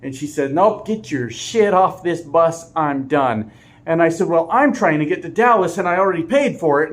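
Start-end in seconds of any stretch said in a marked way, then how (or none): 0.5-3.5 firm, slower snap at a passenger; mock stern bus driver; retold angry driver. Angry driver quitting, quoted. 4.3-6.9 louder, higher insistent protest; raised mock complaint; retold protest. Arguing with driver, retold.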